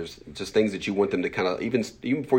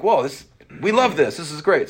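high, loud delighted buy-in; acted enthusiasm; 8 semitones higher, 6 dB louder than usual. Team thrilled with their own idea, acted excitement. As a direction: gush as if it were your own idea. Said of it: "now they're like".

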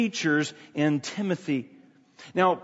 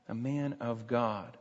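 slow, low and much softer; hushed, solemn repeat; 6 semitones lower, 10 dB quieter than usual. Real, not acted. Preacher dwelling on Timothy as man of God, hushed. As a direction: let "man of God" sink in quietly.

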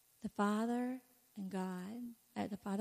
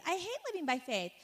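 higher whine; 8 semitones higher than usual. Retold or imitated. Repeated complaint, higher.

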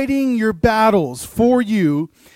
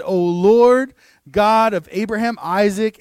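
loud invocation; 6 dB louder than usual. Acted. Voices Elijah's prayer aloud.

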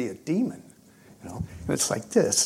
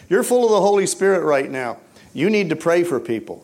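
raised, louder insistence; retold urgent command; 4 semitones higher, 6 dB louder than usual. Ken sending friends to pray, retold urgent command. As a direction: press it on them loudly.

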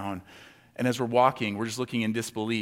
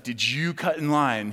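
stern agent; 2 semitones higher, slower than usual. Retold or imitated. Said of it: "She's like".

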